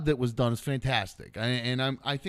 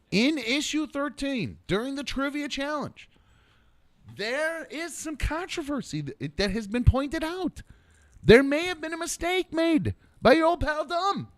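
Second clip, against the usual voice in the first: game show announcer; 11 semitones higher than usual. Acted. Mock announcer about himself.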